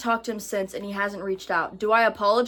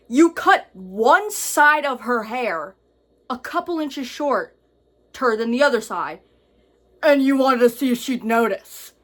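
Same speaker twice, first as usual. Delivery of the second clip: incredulous; 5 dB louder than usual. Real, not acted. Incredulous at the boyfriend.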